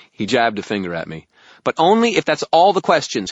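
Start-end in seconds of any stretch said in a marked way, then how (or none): 1.6-3.3 high, loud, insistent fairy; bargaining fairy. Acted. Fairy sets terms for wizard, insistent high voice. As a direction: lay down the condition in a high pipe.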